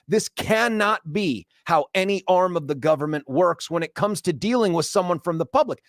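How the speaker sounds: retold lecture getting worked up; animated indignation. Customer lecturing clerk on dealing with the public, animated indignation. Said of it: "I'm getting animated here".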